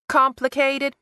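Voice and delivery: sharp high incredulous echo; echoing in disbelief. A narrator's reading. Kathy echoing her daughter, high and incredulous. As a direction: throw the word back in disbelief. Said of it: "Kathy echoed".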